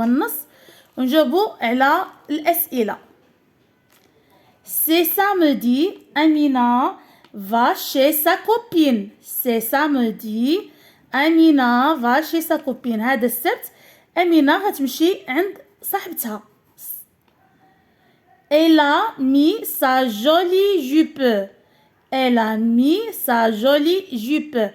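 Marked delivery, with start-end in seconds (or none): 4.6-13.0 a teacher's measured read-aloud; slow model reading. Shown as a demonstration. Teacher reads text aloud slowly. 18.5-21.5 very slow model read. Shown as a demonstration. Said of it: "إذا لبست".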